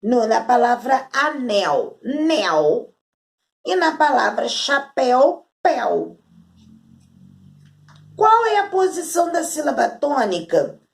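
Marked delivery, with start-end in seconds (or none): 2.0-2.9 "nel" split off and said alone as the strong syllable; stressed syllable. Shown as a demonstration. Teacher showing pupils the stressed syllable, "nel" set apart. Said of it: "a sílaba mais forte aí". 5.6-6.2 "pel" split off and said alone as the strong syllable; stressed syllable. Shown as a demonstration. Teacher showing pupils the stressed syllable, "pel" set apart. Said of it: "a sílaba mais forte aí".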